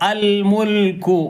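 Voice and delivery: അൽ മുൽക്കു drawn out slowly with an opening "a"; slow recited അൽ മുൽക്കു; recited demo. Shown as a demonstration. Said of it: "ആ എന്നാണ് വായിക്കേണ്ടത്".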